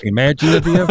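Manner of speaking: mock Southern accent, asked as a question; Nashville accent. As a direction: have a go at a Nashville twang. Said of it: "how would they say it in Nashville?".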